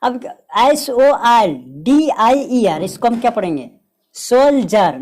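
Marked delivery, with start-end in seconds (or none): 4.2-5.0 सोल्जर said with J, not शोल्डर; सोल्जर spoken as sol-jer with a clean S; correct pronunciation. Shown as a demonstration. Teacher modelling the right pronunciation to students, clear. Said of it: "नहीं कि शोल्डर पढ़ना".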